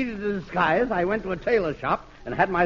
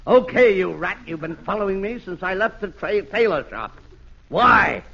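barked. Acted. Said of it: "and barked".

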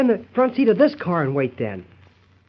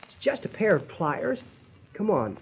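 hushed; 8 dB quieter than usual. Acted. Sneaking up to siphon gas.

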